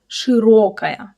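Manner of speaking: "Широкая" with a slow, clear stressed O; full stressed O. Shown as a demonstration. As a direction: keep the O in "Широкая" unreduced, drawn out. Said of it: "we pronounce O as O".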